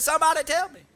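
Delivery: put-on high, exasperated Korean-accented plea; broken Korean-English. Korean master demanding answers from class, broken Korean-English. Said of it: "she talks sort of broken Korean".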